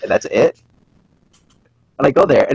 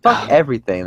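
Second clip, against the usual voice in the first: mock outrage; 6 semitones higher than usual. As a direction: rant it up as a joke. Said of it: "I'm kidding".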